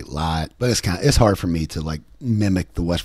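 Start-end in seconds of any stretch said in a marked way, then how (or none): 0.0-0.5 "light" with a flat ah vowel, like lah; Appalachian light. Shown as a demonstration. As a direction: flatten the vowel of "light" to ah, no glide. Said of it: "people will say".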